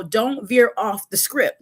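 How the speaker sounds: slow, deliberate warning; quoted rule. Retold or imitated. Repeating the boss's rule, slow and deliberate. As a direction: spell out the rule slowly. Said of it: "they always tell you".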